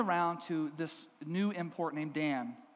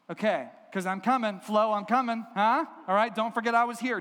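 raised, pushy visitor's voice; insistent reminder; 3 semitones higher, 4 dB louder than usual. Acted. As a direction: press the receptionist so she remembers you. Daniel pestering the secretary.

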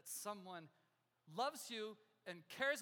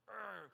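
disgusted growl. Retold or imitated. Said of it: "seeing a little bit of".

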